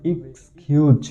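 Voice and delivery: "এক্সকিউজ" joined smoothly as "ikskhiuz"; full word demo. Shown as a demonstration. Teacher joins both syllables into the whole word. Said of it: "দুইটি মিলে সঠিক উচ্চারণ হবে".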